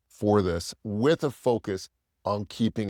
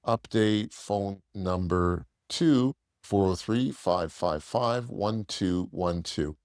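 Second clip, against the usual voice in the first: slow dictation; 3 semitones lower, slower than usual. Shown as a demonstration. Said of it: "we're gonna say".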